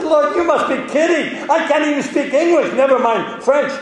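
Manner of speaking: high, laughing disbelief; incredulous laughing protest. Retold or imitated. Telling God he must be kidding, laughing disbelief. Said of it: "I said".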